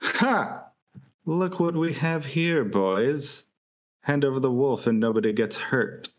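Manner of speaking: lightly voiced adventurer's challenge; mock hold-up call, starting high. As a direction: echo the bandit's threat back. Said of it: "Scripture is gonna call out".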